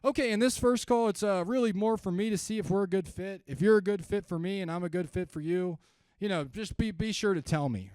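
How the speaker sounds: loud, high, hard-selling pitch; pushy salesman. Shown as a demonstration. Agent laying out call terms, loud and pushy. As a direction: press the prospect like a closer. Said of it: "this is the worst thing you could possibly do".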